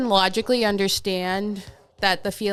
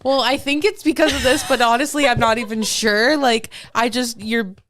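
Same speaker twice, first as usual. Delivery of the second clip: higher, louder mock exasperation; playfully fed up, raised voice; retold anger; 4 semitones higher, 5 dB louder than usual. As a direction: replay an irritated rant at a partner. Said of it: "I'm so mad at you".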